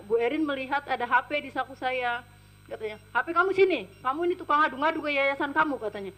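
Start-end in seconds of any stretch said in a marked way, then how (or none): 3.1-5.8 higher-pitched mock accusation; retold angry demand. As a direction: imitate a boss demanding the phone. Retold employer demanding the phone.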